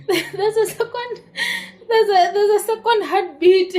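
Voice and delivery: high, laughing retelling of astonishing news; joking, laughing. Retold or imitated. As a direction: break into laughter while imitating him, pitch leaping up. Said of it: "He's even joking about it".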